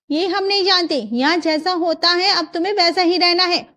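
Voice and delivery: lightly voiced domineering mother-in-law; stern mother-in-law. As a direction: lay down the house rules. Mother-in-law lays down rules.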